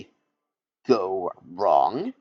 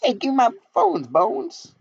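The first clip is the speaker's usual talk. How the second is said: much higher, louder hip rapper croc; Vector the crocodile; 11 semitones higher, 4 dB louder than usual. Acted. The crocodile introduces himself with a rap, much higher swaggering voice. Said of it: "I'm not talking like that".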